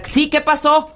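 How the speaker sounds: high-pitched phone-call imitation; Marta's phone voice. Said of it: "Y Marta".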